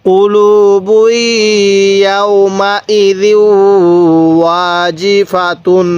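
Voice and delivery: কুলুবু ইয়াউমা ইযি drawn out slowly, each syllable held; slow Quranic recitation. Shown as a demonstration. Teacher reciting slowly to students, syllables drawn out. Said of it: "আরেকবার এখান থেকে".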